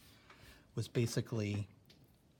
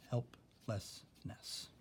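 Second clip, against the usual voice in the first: whispered syllable demo; 6 dB quieter, much slower than usual. Shown as a demonstration. Teacher whispering Helplessness for the class to split, slow. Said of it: "are all different syllables".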